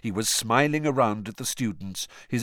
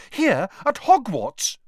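high, slow, appalled question; disbelieving and horrified; horror-struck; 13 semitones higher, 7 dB louder, slower than usual. Acted. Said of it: "horror-struck".

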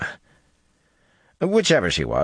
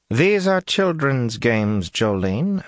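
dry murmur; 7 semitones higher, much slower than usual. A narrator's reading. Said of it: "Vandene murmured dryly".

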